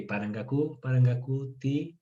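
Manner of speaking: measured teacher sounding out a long word; piece by piece. Shown as a demonstration. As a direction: build parangacuti up chunk by chunk. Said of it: "se la graba por pedazos". (por pedazos, añadiendo sílabas)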